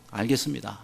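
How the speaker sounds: soft, resigned yes; soft resigned reply; resigned acceptance. Retold or imitated. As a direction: give in quietly. Pastor quietly gives in.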